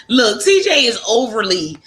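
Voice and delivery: tipsy laughing talk. Real, not acted. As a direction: laugh through it, a bit tipsy. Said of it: "overly, um, tipsy tonight".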